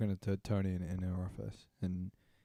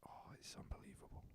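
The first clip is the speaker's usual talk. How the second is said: whisper; 20 dB quieter than usual. Real, not acted. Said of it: "whispered praise".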